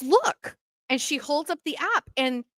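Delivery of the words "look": urgent friend. Retold or imitated. Kathy showing the app.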